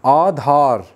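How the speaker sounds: आधार said with a long आ in both syllables; pronunciation demo. Shown as a demonstration. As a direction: sound out आधार carefully, drawing out both long vowels. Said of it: "जब हम बोलते हैं तो".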